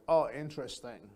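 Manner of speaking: flat, bored monotone. Shown as a demonstration. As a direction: say it like a robot, no interest. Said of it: "No, that's monotone. That's like a robot".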